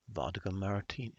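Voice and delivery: put-on first try at a snobby British accent, American vowels slipping in; rough snobby British, not quite there yet; half-American attempt at a posh British accent; fake British accent. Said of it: "fake British accent that I can manage".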